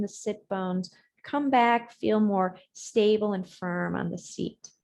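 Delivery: unhurried yoga cues with long silences; guided breathing meditation. Real, not acted. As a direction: guide the breath phrase by phrase, leaving room to follow.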